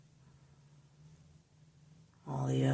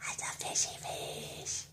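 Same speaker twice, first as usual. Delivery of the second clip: soft whisper, stress on fishy; 7 dB quieter than usual. Real, not acted. Owner whispers fondly to the pet fish.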